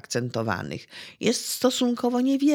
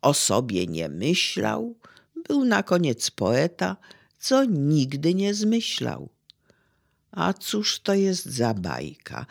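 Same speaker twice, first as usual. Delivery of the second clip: measured verse reading, slowing toward the end; recytacja wiersza. Acted. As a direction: recite the fable line by line, with pauses. (recytacja bajki wierszem, z pauzami)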